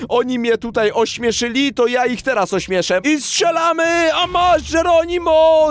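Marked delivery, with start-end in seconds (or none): 3.0-5.7 higher, shouted Geronimo; excited battle cry. Real, not acted. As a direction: yell as you fire. Firing the big weapon.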